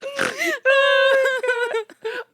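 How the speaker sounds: snorting laugh; a quick snort while laughing. Real, not acted. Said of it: "did you just snort?".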